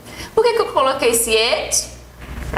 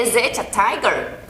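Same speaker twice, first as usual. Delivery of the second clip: slow question model. Shown as a demonstration.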